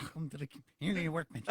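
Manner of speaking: muffled through hands over mouth; face in hands. Pretend. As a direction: speak through cupped hands. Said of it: "put your hands over your mouth and talk normally".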